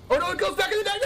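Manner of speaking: laughing dismay. Real, not acted. Card bounces back.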